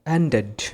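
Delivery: "ended" with the e sounded; ED as full syllable. Shown as a demonstration. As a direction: pronounce the final -ed of "ended" as its own syllable. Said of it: "তখন কিন্তু ই কে উচ্চারণ করতে হবে".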